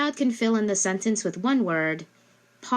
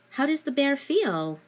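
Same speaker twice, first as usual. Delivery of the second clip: much higher, lilting question; asking the child; 8 semitones higher than usual. Shown as a demonstration. Parent quizzing child on prepositions, much higher question. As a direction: sing the question up to a small child. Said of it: "after you read it and say".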